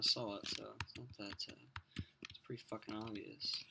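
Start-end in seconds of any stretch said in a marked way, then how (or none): 2.3-3.6 whispered aside. Real, not acted.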